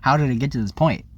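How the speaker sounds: panicked disbelief. Retold or imitated. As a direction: relive the panic as it hit. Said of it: "and I was like".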